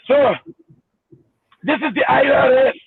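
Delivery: lightly mocked Indian accent of a scam caller. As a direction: put on a mild Indian accent, formally. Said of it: "with an Indian accent".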